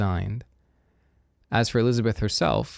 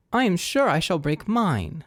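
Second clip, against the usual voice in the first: melodramatic lament; 9 semitones higher, 3 dB louder than usual. A narrator's reading. Lydia moans over regiment leaving.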